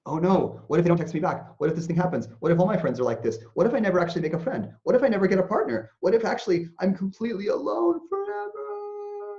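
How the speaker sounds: building from worried to a loud, crying high wail; mock anxious spiral ending in a hammed-up cry; spiraling anxiety. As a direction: escalate the panic into a fake sob. Acting out an anxious thought spiral.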